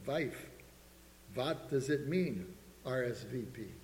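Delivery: Eastern European husband, W turned to V; thick Eastern European accent. Acted. Husband puzzling over the invitation with his wife, Eastern European accent. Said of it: "In his thick Eastern European accent".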